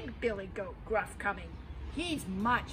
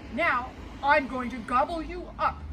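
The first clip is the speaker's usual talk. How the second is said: troll threat; 5 dB louder than usual. Acted.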